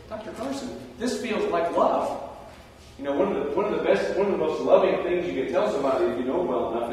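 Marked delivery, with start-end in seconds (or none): 0.1-2.3 playful retort. Retold or imitated. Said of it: "I go".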